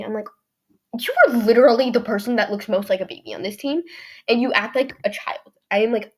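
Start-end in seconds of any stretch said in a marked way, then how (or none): 1.0-5.5 loud, emphatic retort; mildly heated, acted-out retort; indignant comeback. Girl retelling her comeback to a mean teammate, indignant.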